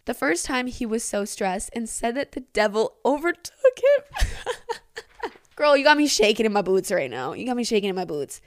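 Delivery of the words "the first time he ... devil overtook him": reading that tips into laughter at the end; laughing while reading. Real, not acted. Reader quoting the priest's excuse, cracking up at the end. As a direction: lose it on the last words, pitch jumping up. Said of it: "can't read this without laughing".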